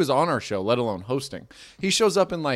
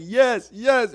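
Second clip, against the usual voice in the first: put-on drunk heckler voice; 10 semitones higher, 4 dB louder than usual.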